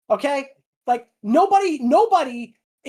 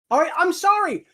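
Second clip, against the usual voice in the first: forceful ranting, voice raised; angry rant; 4 semitones higher than usual. Real, not acted. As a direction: vent it, hammering each line. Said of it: "This was a bit of a rant".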